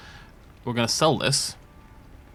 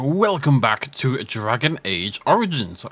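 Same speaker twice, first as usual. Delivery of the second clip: talking around a mint; mint in mouth; slower than usual. Real, not acted. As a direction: speak with a mint in your mouth. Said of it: "I got a mint in my mouth".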